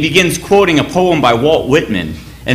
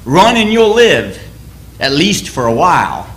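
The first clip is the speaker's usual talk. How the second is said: Wallace rallying troops; 4 semitones higher, slower than usual. Retold or imitated. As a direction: stir the deserters to fight. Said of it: "William Wallace says".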